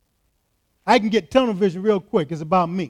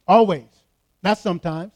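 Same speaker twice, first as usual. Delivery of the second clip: emphatic; 4 dB louder than usual. Acted. Emphatic repeated declaration.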